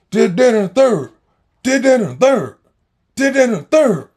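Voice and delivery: high, loud repeated yell; brother yelling. Retold or imitated. Big brother yelling at his little brother, loud high shouts. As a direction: bark it at the kid over and over.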